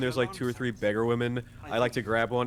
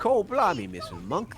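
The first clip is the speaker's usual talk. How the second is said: 1 mock Cockney; 2 semitones higher, slower than usual. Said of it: "everyone in Accra has a Cockney accent".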